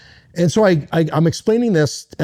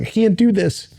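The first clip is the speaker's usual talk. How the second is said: pleading, pitched higher, as if crying out; desperate plea to God, voice raised in pitch; retold crying out; 5 semitones higher than usual. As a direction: beg God to take the thought away. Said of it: "I remember crying out to God".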